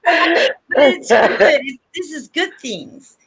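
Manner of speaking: real tears breaking through the words; fighting back sobs, slow; crying. Real, not acted. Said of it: "I'm gonna cry again".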